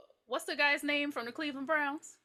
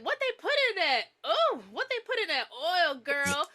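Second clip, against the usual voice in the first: higher, wailing question; mock moaning client; 6 semitones higher than usual. Retelling the client's reaction, higher mock wail. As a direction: whine it out like she's overwhelmed. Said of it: "she's like".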